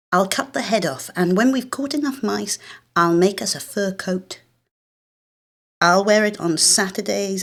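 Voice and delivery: a hint of a seven-year-old laying down the rules; bossy big sister. Older sister bossing little sister.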